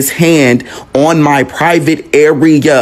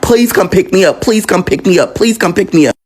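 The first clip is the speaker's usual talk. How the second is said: higher, urgent begging; retold pleading; 6 semitones higher than usual. Nephew locked in bathroom begging aunt on phone, urgent pleading.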